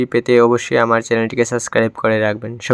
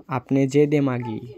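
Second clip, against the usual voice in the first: slow Sylheti, stress on যে; slow teasing Sylheti; Sylheti dialect; 3 dB quieter than usual. Shown as a demonstration. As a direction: drag out the Sylheti jab. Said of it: "Sylheti ভাষা".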